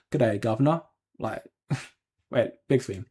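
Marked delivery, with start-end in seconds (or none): 0.1-0.8 a lightly hammed-up Cockney greeting; more Cockney. Streamer retries the chat's line in Cockney. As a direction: lean into the Cockney accent. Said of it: "If we say it more Cockney or".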